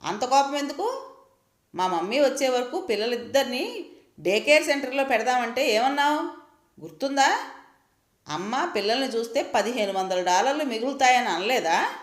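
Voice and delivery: high, rising accusing questions; heated retort. Acted. Wife rounding on husband about money, high heated accusation. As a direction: throw his own words back at him.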